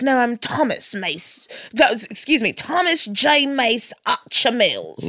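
lightly put-on British accent, drawn out; slow, mildly affected British pronunciation; mock British. Scammer introducing his invented British name, mock British. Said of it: "to be more British".

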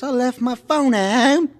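put-on comic-strip girl read aloud, high; little girl. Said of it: "The little girl says".

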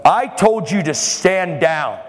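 slow, drawn-out mock yell; retold angry yell. Flight attendant orders preacher to back off, mild mock yell. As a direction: order it slowly, like an angry official. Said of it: "he's yelling at me".

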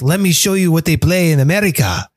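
light, bad Mexican accent; faintly voiced Mexican accent. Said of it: "Mexican accent I've ever done".

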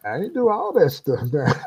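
high-pitched mock protest; comic plea of innocence from the devil; aggrieved devil. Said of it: "He said".

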